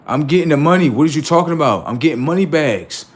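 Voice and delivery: mock loud hustle. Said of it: "What you doing?".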